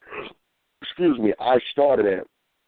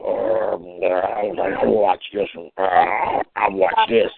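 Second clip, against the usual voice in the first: talking like the dog; 4 semitones lower, much slower than usual. Retold or imitated. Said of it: "she's talking like the dog".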